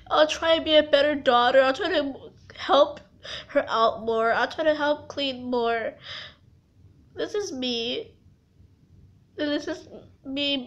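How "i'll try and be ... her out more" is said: tearful promise; real, hurried crying apology. Real, not acted. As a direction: promise it quickly through tears. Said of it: "I'm sorry for crying".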